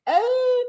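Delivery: very high squeal at normal volume; imitating Coco's squeal. Mimicking Coco's squeal again, very high. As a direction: pitch it way up. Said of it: "She's like".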